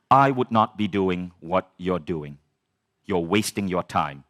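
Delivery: slow, measured verdict in a mentor's voice; solemn mentor. Retold or imitated. Mentor telling his student a hard truth, slow and solemn. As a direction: imitate grave advice, weighing each word. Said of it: "something deep is coming".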